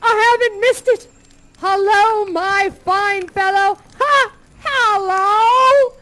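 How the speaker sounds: overjoyed to be alive; elated shouting Scrooge; ecstatic Scrooge. Acted.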